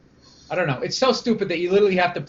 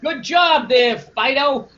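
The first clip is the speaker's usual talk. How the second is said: put-on high, excitable good-boy voice; eager dog praise; 7 semitones higher, 3 dB louder than usual. Comedian likening men to dogs wanting approval, excited. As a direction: beg for and give praise as if to a dog. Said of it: "We're the dogs. Guys are dogs".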